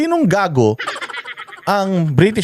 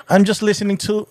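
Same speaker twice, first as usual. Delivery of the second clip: put-on British English, higher pitched; mock British accent; 4 semitones higher than usual. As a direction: imitate her fake British accent. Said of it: "anong cassette tape yan". (panggagaya sa pekeng British accent)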